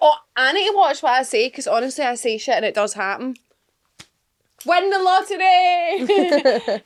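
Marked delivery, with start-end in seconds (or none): 4.7-6.8 mock manifesting cry. Joking about manifesting luck.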